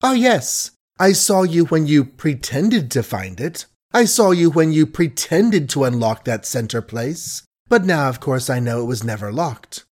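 honeyed voice hiding contempt; sweet as honey yet cutting; suave sweetness. Acted. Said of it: "Suave, gentle, sweet as honey was the speech".

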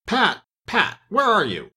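high-pitched, peevish summons; angry call. A narrator's reading. The angry Rabbit calling for Pat, cross. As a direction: call crossly for a missing servant. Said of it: "Next came an angry voice".

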